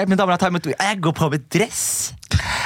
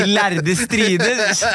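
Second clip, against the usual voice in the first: mock solemn; 4 semitones higher, much slower than usual. Echoing friend's line.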